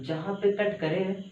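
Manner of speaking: "जहाँ पे कट करे" said slowly, each word spaced, rising at the end; slow, stressed rule. Shown as a demonstration. Teacher repeating the key rule to students, slow and deliberate. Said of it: "अब देखो मैं बोला कि जहाँ पे कट करे".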